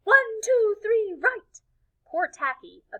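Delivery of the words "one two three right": high, tense cheer; horrified cheer. Acted. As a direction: keep going through the panic. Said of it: "horrified teammates carried on".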